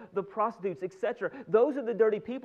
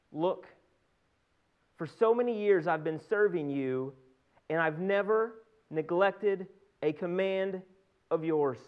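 mildly indignant scripture quote; measured, emphatic reproach from son to father; restrained anger; slower than usual. Acted. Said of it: "the older brother became angry".

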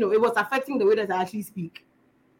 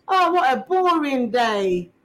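slow, drawn-out small talk; pretend conversation; 3 semitones higher, slower than usual. Walking home alone pretending to be two people, pretend conversation. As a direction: lightly play the first of two chatting people. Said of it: "I'm pretending to be two people".

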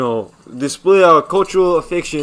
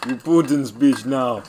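put-on Ukrainian accent. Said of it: "in a Ukrainian accent".

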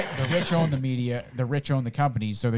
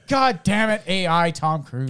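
mock angry yell; 3 semitones higher, 4 dB louder than usual. Acting Tom Cruise yelling.

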